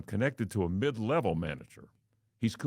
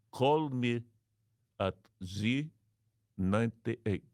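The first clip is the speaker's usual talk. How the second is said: a light put-on Arab accent; mock Arab accent; 3 semitones higher, slower than usual. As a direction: give the callback number in character. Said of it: "Me as Arab".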